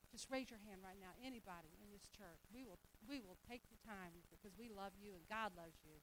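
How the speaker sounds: soft, tender invitation; pastor's quiet altar call; gentle altar call. Real, not acted.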